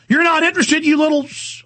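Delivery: high-pitched, indignant comeback; indignant and fed up; exasperated retort. Retold or imitated. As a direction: throw it back in disbelief, cutting off the insult. Exasperated retort to dismissive reporter.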